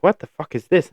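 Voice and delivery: high, startled retold disbelief; a kid finding hair in his mouth, shocked and high.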